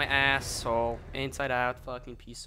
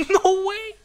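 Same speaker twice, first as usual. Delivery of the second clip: surprised; 8 dB louder than usual. Real, not acted. Rescued unexpectedly.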